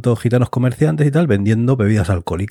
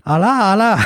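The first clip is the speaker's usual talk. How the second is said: much higher frightened shout; panicked cry; 11 semitones higher than usual. Retold or imitated. Soldiers mishear the alarm, a high frightened cry. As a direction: cry it out high as if the enemy comes.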